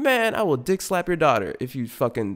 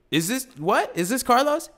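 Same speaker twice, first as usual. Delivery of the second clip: incredulous question; 12 semitones higher than usual. Retold or imitated. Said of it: "So I'm like".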